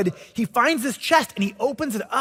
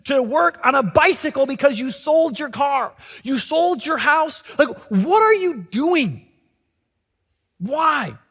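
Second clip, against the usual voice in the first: higher, disbelieving scolding; exasperated friends; 5 semitones higher than usual. Retold or imitated. Friends scolding the man for selling everything, higher and disbelieving. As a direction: tell him he has lost his mind. Everyone calls him crazy.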